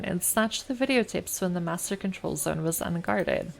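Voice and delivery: reading game text aloud, evenly; story narration. A narrator's reading. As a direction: narrate the scene like an audiobook.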